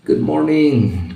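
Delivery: slow, high, with a cigarette in mouth. Real, not acted. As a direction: say it round a cigarette. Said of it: "Belajarnya santai sambil merokok".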